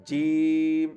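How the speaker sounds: জিম said firmly from the makhraj, tongue middle on palate; জিম, tongue middle pressed to the palate; second take of jim. Shown as a demonstration. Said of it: "normal মানুষের শুনতে মনে হচ্ছে যে এটা সহি". (জিম সহি মাখরাজে)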